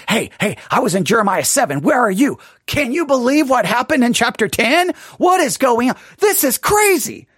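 acted excitement climbing in pitch; eager excitement. Eager reader seeking someone to talk to, excitedly. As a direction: build to amazed disbelief.

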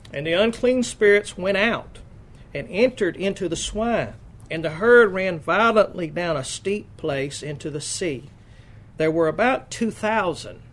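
measured, emphatic Bible reading; scripture reading. Acted. Preacher reads Mark's gospel to the congregation, emphatic scripture reading. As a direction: read out the verse in deliberate, weighted phrases.

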